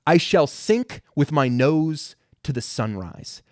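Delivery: slow quoted reading. Shown as a demonstration. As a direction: let the last line sink slowly. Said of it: "I just wanna read it to you".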